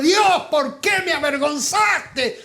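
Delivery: grito lento y más fuerte, reclamando a Dios. Retold or imitated. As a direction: clamar con reproche, arrastrando las palabras. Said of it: "a los gritos diciéndole". (recuerda cuando despertó gritándole a Dios)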